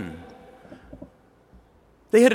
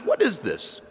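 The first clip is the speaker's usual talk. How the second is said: raised, bewildered question; puzzled; 4 semitones higher, 4 dB quieter than usual. Shown as a demonstration. Preacher acts out the Israelites puzzling over manna, puzzled. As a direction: ask it scratching your head in confusion. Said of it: "You have to scratch your head when you say it".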